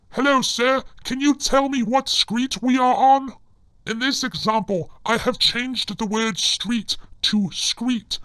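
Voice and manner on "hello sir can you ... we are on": asked a touch louder; a polite stranger asking the way; raised, polite asking voice; mock polite question. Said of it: "For example".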